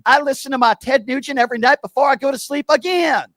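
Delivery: Steven caller voice. Acted. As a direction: sneer every again like a talking-point parrot. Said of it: "I'm gonna be Steven".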